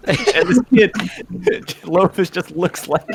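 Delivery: words through real laughter; laughing. Real, not acted. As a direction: giggle through the description. GM laughing mid-narration.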